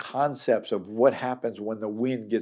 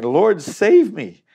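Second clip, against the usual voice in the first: loud, slow, high plea; crying out for help; 7 semitones higher, 8 dB louder, slower than usual. Acted. Preacher voices sinking Peter crying loudly for rescue. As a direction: call out as if sinking.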